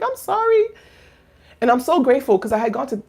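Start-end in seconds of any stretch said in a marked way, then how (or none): 0.0-0.7 high, quick apologetic squeak; mock apology. Telling women not to apologize for tears, mock apology. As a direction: imitate a needless high-pitched apology. Mimics needless apology for crying.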